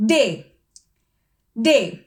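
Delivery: ഡേ said as a long day; German letter name. Shown as a demonstration. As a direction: model ഡേ slowly. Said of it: "അത് ശ്രദ്ധിക്കുക". (German ഡേ ഉച്ചാരണം)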